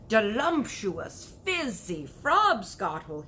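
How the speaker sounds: slow, loud relish of each word; proud shout. Acted. BFG showing Sophie his drink, slow loud proud shout. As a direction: savor it, showing it off. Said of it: "he shouted".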